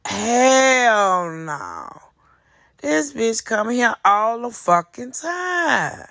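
slow, drawn-out mock outrage; incredulous scoff. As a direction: drag it out like you can't believe it. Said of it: "That man said he was like".

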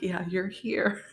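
slow, wobbly retold crying reply; mild mock sob, slow; tearful retort. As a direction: drag it out like you're sobbing. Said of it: "like, bawling".

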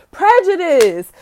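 loud drawn-out verdict; slow emphatic verdict. Real, not acted. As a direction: hammer the word down.

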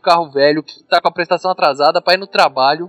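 motivational speech. Retold or imitated. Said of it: "ele faz um discurso foda".

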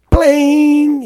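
high, loud sung plink of a piano key; piano note. Retold or imitated. Struck middle C ringing out, high and loud plink.

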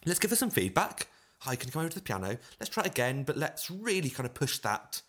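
upbeat audition feedback. Retold or imitated. Pianist to auditionee asking for another go, upbeat. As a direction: lightly act out a chirpy note to an auditionee.

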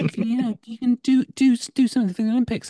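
shrill insistent Filipino mum; Filipino mum accent. Retold or imitated. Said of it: "I can just do a general Filipino accent".

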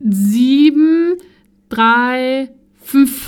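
"sieben, drei, fünf" spaced out, endings clipped short; "sieben, drei, fünf" deliberately separated yet slurred; slow but shortened. Retold or imitated. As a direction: dictate "sieben, drei, fünf" one by one, "sieben" as "siebm". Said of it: "laut und langsam gesagt, aber halt trotzdem mega abgekürzt".

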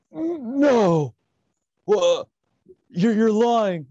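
squeaky high no, what, disbelieving; shocked disbelief. Retold or imitated. Friend Matt Riddle hearing he was fired, high-pitched shock. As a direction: sound floored by the news.

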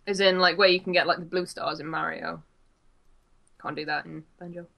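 eating while talking; mouth full. Real, not acted. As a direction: talk through a mouthful of dinner. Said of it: "Sorry, I'm eating my dinner now".

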